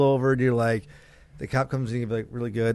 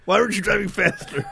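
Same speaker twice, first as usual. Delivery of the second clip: laughing squeal; 7 semitones higher than usual. Pretend. High squeal voice while laughing.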